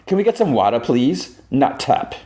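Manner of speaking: high, carrying call for water. Retold or imitated. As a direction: call it across the room. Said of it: "she calls out".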